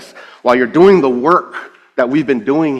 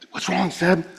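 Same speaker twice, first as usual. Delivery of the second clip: soft, higher gentle question; concerned pastor; 6 semitones higher, 7 dB quieter than usual. Retold or imitated. Pastor asking the crying church leader, gently concerned. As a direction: check in tenderly.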